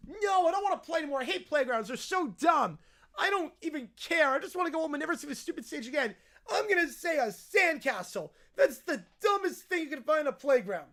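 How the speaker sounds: put-on petulant bratty child grumbling; mock-tantrum child voice; whiny kid. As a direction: complain like a sulky kid. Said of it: "peak whiny kid territory".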